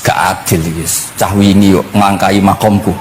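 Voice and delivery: low-pitched grumble; grumbling. Acted. Moses complaining that a newcomer overtook his station, grumbling. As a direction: complain under your breath, low. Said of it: "Grutu iku".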